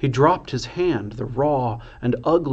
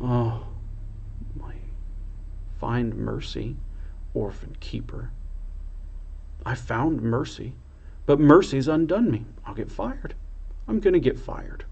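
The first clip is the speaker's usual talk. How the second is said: softer, whimpering lament; a hint of tearful despair; small wail; 6 dB quieter than usual. A narrator's reading. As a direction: moan over being undone. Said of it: "A small wail came from her mouth".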